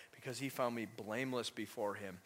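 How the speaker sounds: low, calm acted reply; no bitterness. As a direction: answer the king evenly, without reproach. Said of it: "No bitterness".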